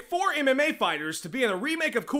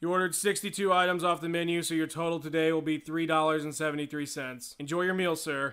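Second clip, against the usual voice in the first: cashier voice; 6 semitones lower, 5 dB quieter than usual. Acted. Taco Bell cashier.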